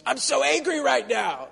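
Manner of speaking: imitating a grieving woman yelling; mock angry yell. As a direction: replay her cry of anger, half-hearted.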